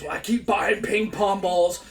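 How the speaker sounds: mock fed-up coach. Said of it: "he flips out and he goes".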